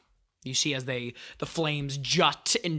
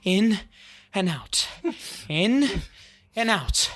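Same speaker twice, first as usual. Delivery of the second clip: calm; 4 semitones higher than usual. Acted. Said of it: "as Calm comes up and says".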